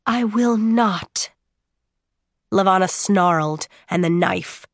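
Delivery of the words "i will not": slow and steady, each word weighted; calm, resolute defiance; firm, slow refusal. Acted. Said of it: "as she said firmly".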